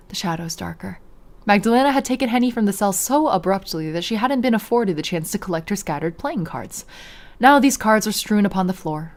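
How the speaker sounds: measured read-aloud storytelling; story narration. A narrator's reading. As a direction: narrate the scene evenly.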